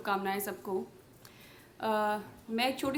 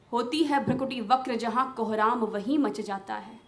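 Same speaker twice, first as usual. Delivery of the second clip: Draupadi's pleading, questioning verse; impassioned poem recitation. Acted. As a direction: declaim the verse as an indignant appeal.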